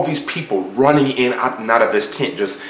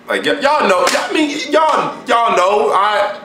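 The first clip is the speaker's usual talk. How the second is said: awkward; 14 semitones higher, slower than usual. Real, not acted. Awkward hesitation about race.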